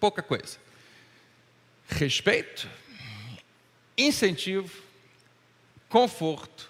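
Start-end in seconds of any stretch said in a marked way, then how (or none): 1.9-6.7 very slow, deliberate, each word drawn out. Listing what children need, the speaker goes slowly so each word sinks in: speaking very slowly. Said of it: "Estou falando devagar".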